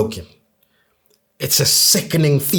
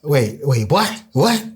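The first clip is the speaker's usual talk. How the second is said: startled questions; slower than usual. Retold or imitated. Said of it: "And Exhibit is like".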